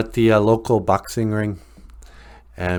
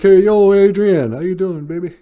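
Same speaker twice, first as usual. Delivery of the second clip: loud tough-guy flirt; 10 semitones higher, 8 dB louder than usual. Retold or imitated. Rocky greets shy Adrian.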